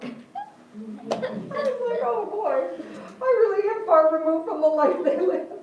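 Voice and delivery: real laughter running through the words; laughing. Real, not acted. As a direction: talk through a laugh, pitch up high. Laughs at own story about pupils.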